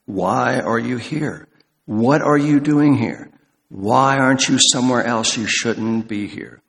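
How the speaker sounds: slow, stern reproach; God scolding Elijah for running away; rebuking. Retold or imitated. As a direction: take him to task with each question. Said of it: "taking him to task".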